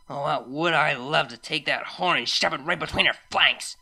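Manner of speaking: mild angry growl. Acted. Rainbow Dash wishing revenge on the snob, growling. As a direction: growl it through pent-up frustration. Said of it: "Dash growled".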